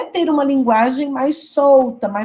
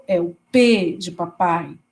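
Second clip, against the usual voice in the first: slow demo; 6 semitones lower than usual. Shown as a demonstration. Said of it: "Se não tem a vibração".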